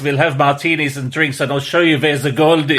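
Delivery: hammed-up Austrian villain; mock Austrian accent. Co-host imitating the scientists who look like war criminals, mock Austrian accent. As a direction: put on a comic Austrian accent. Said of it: "this weird Austrian accent".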